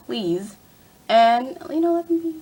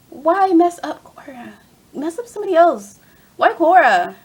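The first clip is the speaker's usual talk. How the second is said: higher, louder fan complaint; exasperated protest; 5 semitones higher, 6 dB louder than usual. Real, not acted. Fan protesting what was done to Cora, exasperated. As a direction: plead loudly, really put out.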